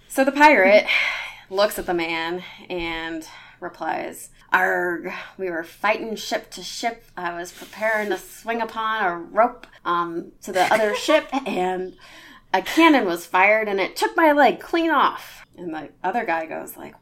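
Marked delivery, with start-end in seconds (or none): 4.5-11.3 gruff pirate accent, played for laughs. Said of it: "your pirate accent is spot on". 11.5-15.5 put-on pirate accent, louder and rising; pirate accent telling a war story. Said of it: "your pirate accent is spot on".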